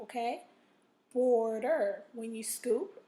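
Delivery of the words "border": "Border" with a loud, drawn-out BOR; stress on first syllable. Shown as a demonstration. Teacher showing where to scoop, "Border" stressed on BOR. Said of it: "O R is in the first syllable".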